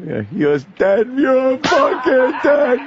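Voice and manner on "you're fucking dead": mock menace. Quoting the killer's glare.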